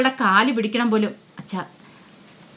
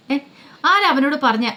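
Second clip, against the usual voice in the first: angry demand, pitched up; 5 semitones higher than usual. Acted. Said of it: "ബാലേന്ദ്രന് ദേഷ്യമായി".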